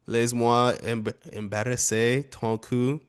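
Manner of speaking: amateur French accent, read carefully. Shown as a demonstration. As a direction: try a modest French accent, slowing at the end. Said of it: "That's my French accent".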